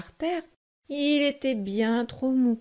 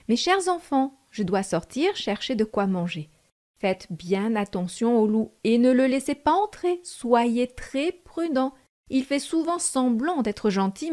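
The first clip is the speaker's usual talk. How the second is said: caring mother goat; 3 dB louder than usual. Acted. Mother goat warns her kids.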